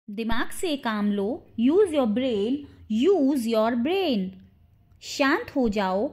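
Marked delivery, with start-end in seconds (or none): 3.0-4.3 drawn-out teaching example; slow model repeat. Shown as a demonstration. Teacher models the phrase for English learners, slowly. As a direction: stretch the words slowly.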